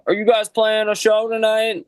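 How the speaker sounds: high put-on voice of a homeless woman; lightly voiced street woman asking; homeless lady voice. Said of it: "and she's like".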